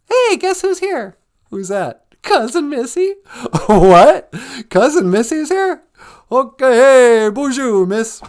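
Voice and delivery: high, loud excited character voices; high excited put-on greeting; playful character voice. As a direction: play the arrival excitedly.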